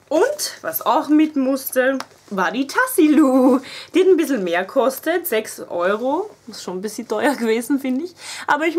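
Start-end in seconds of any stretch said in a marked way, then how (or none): 0.1-6.3 excited. Real, not acted. Excited showing favourite purse.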